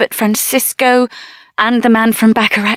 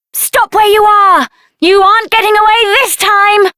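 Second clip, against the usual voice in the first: commanding shout; 8 semitones higher than usual. Acted. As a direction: stop them in their tracks. Confronting fleeing enemy.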